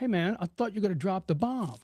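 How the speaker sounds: ordinary talk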